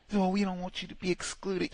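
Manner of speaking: high, mocking coworker voice. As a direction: parody the sugary invite.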